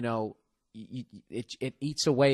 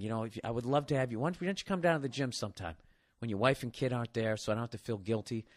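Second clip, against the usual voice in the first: Columbo. Acted. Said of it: "Maybe you do it like Columbo".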